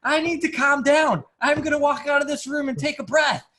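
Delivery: replaying his own apology to his brother up high; high-pitched retelling of saying sorry; retold own apology. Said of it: "And I'm like".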